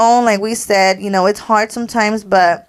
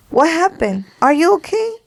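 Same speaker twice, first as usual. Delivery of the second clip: higher-pitched, retold worried check-in; concerned grandpa; 7 semitones higher than usual. Grandpa calling his upset granddaughter, gently concerned. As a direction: ask as a concerned grandpa, voice lifting high.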